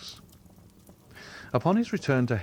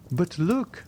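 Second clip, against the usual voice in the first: exclaimed; 9 semitones higher than usual. A narrator's reading. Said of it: "exclaimed Madame Danglars".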